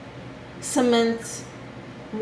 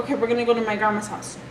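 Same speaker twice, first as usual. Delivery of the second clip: quick, casual retold announcement; tossed off lightly, like dad saying it; dad's quick announcement; faster than usual. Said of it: "No, we did not go".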